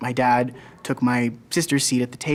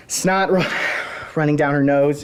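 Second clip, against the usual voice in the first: acted distress, stumbling on a word; upset; 2 semitones higher, 4 dB louder than usual. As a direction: let the distress push the voice up. Tearful climax of monologue.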